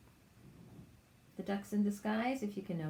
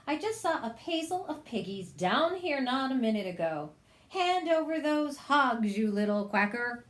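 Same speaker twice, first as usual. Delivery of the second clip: higher, demanding witch voice; angry witch; 4 semitones higher, 3 dB louder than usual. Acted. Witch demanding the hogs from the duck. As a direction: order the duck to hand over hogs. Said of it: "Gritch screeched".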